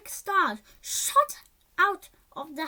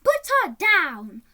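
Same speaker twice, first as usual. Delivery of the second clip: much louder heroic shout; 3 semitones higher, 9 dB louder than usual. Acted. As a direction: shout with all your might. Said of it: "shouted Izzy with all his might".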